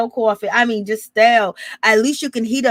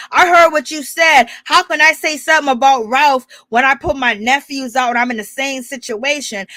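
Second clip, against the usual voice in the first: mock cussing; 2 semitones higher, 4 dB louder than usual. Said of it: "basically telling Kandi".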